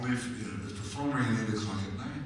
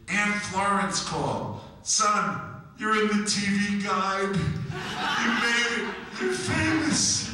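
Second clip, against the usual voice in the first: much higher, slow, laughing joy; excited mother; 13 semitones higher, 3 dB louder, slower than usual. Retold or imitated. Mother telling son he's famous, high and laughing. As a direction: gush with proud excitement. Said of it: "She goes".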